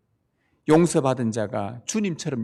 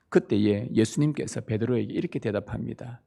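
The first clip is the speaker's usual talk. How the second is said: ordinary talk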